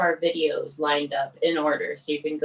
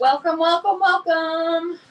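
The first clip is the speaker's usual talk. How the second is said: hyped welcome; 13 semitones higher, 6 dB louder, slower than usual. Acted. Cohost echoes the opening welcome.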